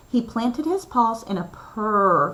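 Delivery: ordinary delivery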